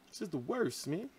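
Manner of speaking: tired, quiet complaint; worn out. Real, not acted. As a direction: let it fall away, spent from the pain. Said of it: "My stomach is killing me".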